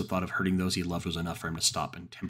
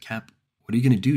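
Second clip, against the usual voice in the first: urgent; 6 semitones higher, 11 dB louder, faster than usual. Acted. Urgent question in crisis.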